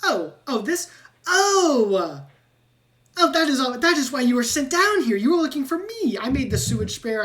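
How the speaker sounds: loud, high rat voice in sudden realisation; excited rat. Acted. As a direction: blurt it out like a rat who just got caught. Rat realises who Sam is.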